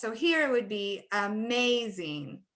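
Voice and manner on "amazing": "amazing" with the middle syllable stretched out; stressed syllable. Shown as a demonstration. Teacher models word stress for other teachers, stressed "amazing". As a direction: lengthen the MAZ in "amazing". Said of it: "just one syllable that's stressed".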